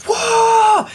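high, loud imitation of cheering; crowd cheer. Acting out the audience's reaction, high excited whoop. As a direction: whoop like a whole theater erupting. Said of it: "the entire audience cheered out loud".

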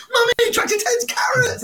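put-on high, slow little child voice; toddler voice. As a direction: imitate a toddler asking. Toddler quoted by parent.

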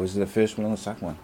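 a quiet attempt at a Scottish accent. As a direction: copy his Scottish mate's accent. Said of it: "My Scottish accent is getting much better".

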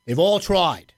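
a touch of a New England coach, slowing at the end; lightly voiced New England coach with a slow closing line; Mac impression, New England. Host trying his rusty coach impression, lightly voiced New England tinge. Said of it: "I do a little bit of a Mac impression".

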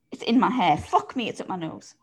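flustered, swatting at a bug; startled bug panic; shaking off a daddy long legs. Real, not acted. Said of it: "being assaulted by a daddy long legs".

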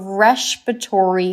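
"respiratory" said as RESH-piratory; slight lisp. Shown as a demonstration. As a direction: soften the S of "respiratory" into SH. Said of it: "I kinda do a little lisp".

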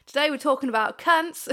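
a light Australian accent on "Today we're talking about cunts". Shown as a demonstration. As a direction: slip into an Australian accent for the intro. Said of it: "can I say it in an Australian accent".

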